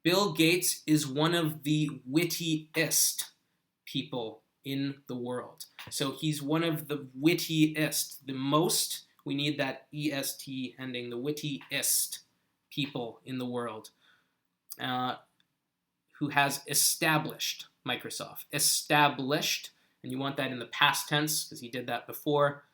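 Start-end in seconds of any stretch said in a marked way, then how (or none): 0.0-5.6 slow, careful teacher's model reading; measured demonstration for a learner; careful model sentence. Shown as a demonstration. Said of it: "here's how I would say that sentence". 18.5-19.7 slow, careful "Established"; "Established" said slowly as a teaching model; careful word model. Shown as a demonstration. Teacher models the corrected past tense.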